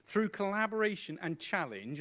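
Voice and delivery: "challenge" pushed up high; rising, pointed "collaboration and challenge"; emphasis on challenge. Real, not acted. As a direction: make "challenge" the word that lands. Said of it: "I'll emphasize that word challenge".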